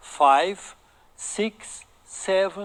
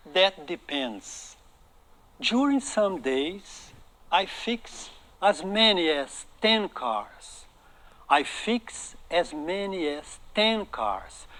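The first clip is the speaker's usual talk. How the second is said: each word drawn out slowly for learners; slow careful reading; much slower than usual. Shown as a demonstration. Teacher modeling the mechanic's line, very slow and clear. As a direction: read it slowly so students can copy. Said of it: "o mecânico vai responder".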